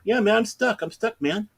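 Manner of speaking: high-pitched imitation of a trapped man; stuck man. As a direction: whine it like you're trapped behind a door. Stuck man answering, acted.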